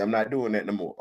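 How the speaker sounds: LeBron quote. Retold or imitated. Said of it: "He said".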